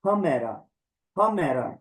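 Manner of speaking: हमेरा with a clear h up front; हमेरा, h then me-ra evenly stressed; h sound demo. Shown as a demonstration. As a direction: open हमेरा on a breathy h. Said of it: "तो इसको क्या बोलेंगे".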